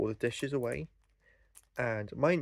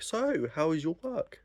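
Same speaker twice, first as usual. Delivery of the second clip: higher, drawn-out mock call across a shop; 6 semitones higher than usual. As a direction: pretend to shout over, slowly, without real volume. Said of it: "Fucking shout through the shop".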